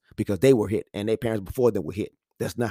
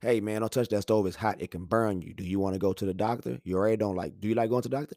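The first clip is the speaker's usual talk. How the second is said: gentle explaining; 4 dB quieter than usual. Acted. Parent explains the hot stove to child, gently. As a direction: reason with the child quietly.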